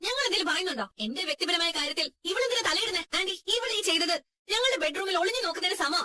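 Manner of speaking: high, offended demand; outraged at the intrusion; indignant complaint. Acted. Quarrel over private matter. (ഉയർന്ന സ്വരത്തിൽ അമർഷത്തോടെ)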